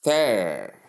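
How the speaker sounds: there as a drawn-out THER, with th; th sound. Shown as a demonstration. Teacher building Thursday piece by piece, th sound. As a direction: say "there" like the first syllable of Thursday. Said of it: "So you simply say".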